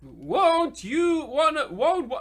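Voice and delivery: a hint of a doddering old woman, halting and unsure; feeble old lady. Old lady asks the boys to help her cross, halting and doddering. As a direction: play a feeble old lady fumbling for words. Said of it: "fine, old woman".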